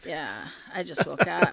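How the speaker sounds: lightly mocked sleepy co-host; Nathaniel, just woken. Teasing the co-host with a fake soundbite, mock sleepy. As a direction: imitate someone just up, with a laugh creeping in. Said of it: "have a little soundbite of Nathaniel".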